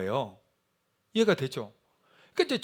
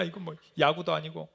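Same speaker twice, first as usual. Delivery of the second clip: usual speaking voice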